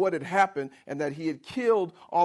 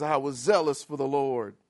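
low, soft, whiny excuse; fearful Elijah justifying his flight, low; whiny self-pity; 5 semitones lower, 4 dB quieter than usual. Acted. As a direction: plead pitifully for being spared. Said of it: "So he says".

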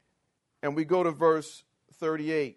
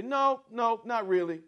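mild denial; 5 semitones higher than usual. Shown as a demonstration. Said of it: "does not mean simply to say".

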